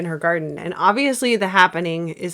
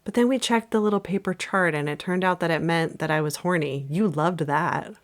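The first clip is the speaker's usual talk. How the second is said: Zooey Deschanel line reading; 3 semitones lower than usual. Acted. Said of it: "And I'm gonna be Alma".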